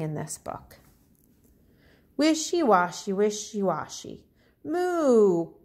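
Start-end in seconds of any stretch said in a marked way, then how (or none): 2.2-5.5 cow's moo. Acted. Teacher reading the cow's moo to children, lightly voiced. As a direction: chant it like the cow in the tub.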